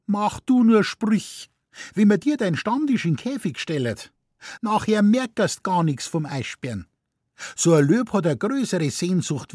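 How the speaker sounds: high, scolding Bavarian wife; indignant wife. A narrator's reading. Wife scolding husband about the lion's longing, high and sharp. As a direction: needle him about his Stammtisch.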